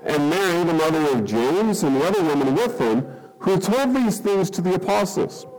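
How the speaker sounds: measured Bible reading to the congregation; solemn scripture reading. Acted. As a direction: read the passage with weight. Reading scripture aloud before prayer.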